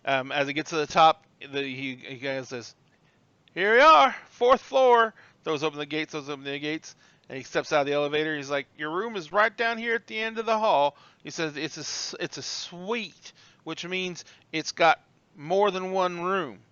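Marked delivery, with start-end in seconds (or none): 3.5-5.1 high, loud announcement; bright-eyed porter's loud call; bellhop announcing floor. Acted. 8.8-16.6 higher, drawn-out porter voice; old bellhop showing off; proud old bellhop. Acted. Bellhop shows off the suite.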